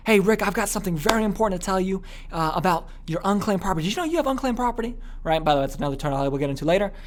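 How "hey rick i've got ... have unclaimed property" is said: assured pitch, rising at the end; absolute certainty. Shown as a demonstration. Salesman telling a prospect of unclaimed property, absolute certainty. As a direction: state it as important news, with certainty. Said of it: "some sense of the absolute certainty tone".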